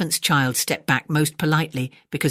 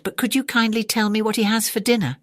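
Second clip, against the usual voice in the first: put-on small, polite, lightly higher child; sweetly polite little animal; elephant's child voice; 6 semitones higher than usual.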